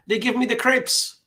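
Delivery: put-on accidental Scottish accent. Streamer delivers a pastry joke punchline, accidental Scottish accent. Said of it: "sounds like a Scottish guy saying crepes".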